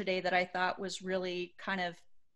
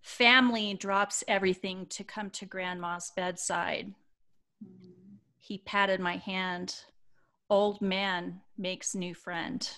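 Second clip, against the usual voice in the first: measured reading with reflective pauses; sincere storytelling delivery; heartfelt read-aloud; 3 dB louder than usual. Acted. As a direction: read a moving post aloud, phrase by phrase. Reads post, headlines.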